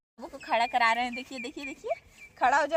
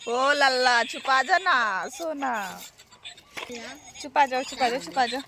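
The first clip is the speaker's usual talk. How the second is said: lulling. Real, not acted. Lulling baby to hush. (लल्ला को धीमे लोरी जैसे चुप कराना)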